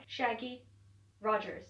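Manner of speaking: slipping into an American accent. Shown as a demonstration. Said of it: "trying to flip into an American accent".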